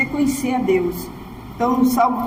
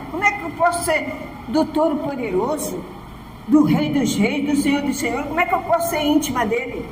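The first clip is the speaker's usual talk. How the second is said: doubting congregant; 3 semitones higher than usual. Retold or imitated. Congregant's objection voiced.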